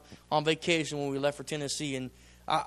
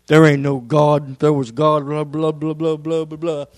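mock defiant shout; 11 dB louder than usual. Pastor imitating Brother Doug denying God, loud mocking shout. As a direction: bark it like a scornful unbeliever, then wave it off. Mimicking unsaved Doug's defiance.

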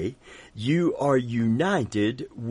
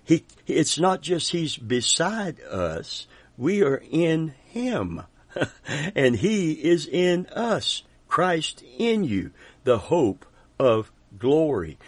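fervent climax; 5 semitones higher than usual. Real, not acted. Preacher telling the congregation Christ is in them, rising fervor. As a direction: lift it up and stretch each phrase.

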